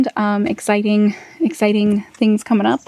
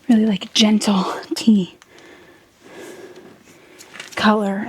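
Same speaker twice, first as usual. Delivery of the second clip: quiet at night. Real, not acted. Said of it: "so I'm gonna try and talk quietly".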